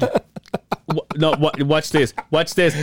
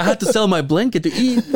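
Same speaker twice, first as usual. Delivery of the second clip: laughing mock dad; 7 semitones higher than usual. Mocking dad's pity text.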